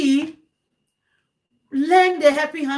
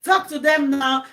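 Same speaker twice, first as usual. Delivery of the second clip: angry scolding. Retold or imitated. Viewer talking back at live videos, mildly angry scolding. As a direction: scold them with a touch of anger. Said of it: "but I'm angry".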